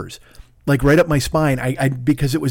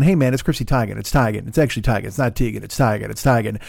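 weary correcting; 4 semitones lower than usual. Retold or imitated. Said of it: "correcting people all the time and going".

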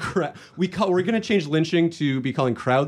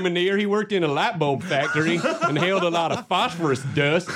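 mock Southern accent. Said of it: "don't know where that accent is from".

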